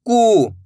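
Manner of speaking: कू with a long held oo; one sustained syllable, कू; drawn-out vowel. Shown as a demonstration. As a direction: stretch the vowel of कू. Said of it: "खींच के पढ़ा जाता है".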